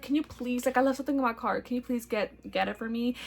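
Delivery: soft pleading flirty ask. Retold or imitated. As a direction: sweetly beg for help. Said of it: "flirty and seductive".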